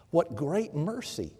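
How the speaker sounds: ordinary talk, nothing marked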